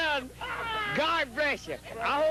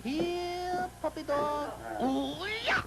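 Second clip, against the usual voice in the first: calling a puppy; slower than usual. Real, not acted. Calling a dog, high voice.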